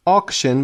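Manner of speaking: a clear K before the last syllable of "Auction". Shown as a demonstration. Teacher shows students the C in "Auction" said as K. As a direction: say "Auction" with a K sound for the C. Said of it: "با صدای ک".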